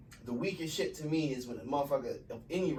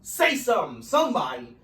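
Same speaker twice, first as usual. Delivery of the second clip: imitated proud fan; 3 semitones higher, 5 dB louder than usual. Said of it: "be like".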